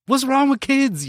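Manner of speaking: put-on high-pitched grumpy old man complaint; playing the cranky old man yelling about kids; mock old man rant. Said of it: "an old man screaming podcast".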